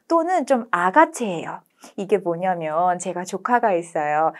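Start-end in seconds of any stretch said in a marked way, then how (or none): none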